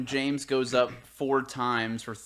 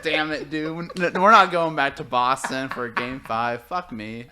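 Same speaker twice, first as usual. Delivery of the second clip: imitating referee; 6 dB louder, slower than usual. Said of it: "he's like".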